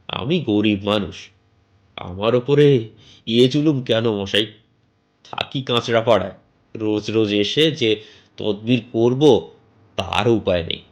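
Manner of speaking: chatty local landlord pushing a sale; bald man selling a house. Acted. Bald stranger pitching the house to the narrator, lightly voiced.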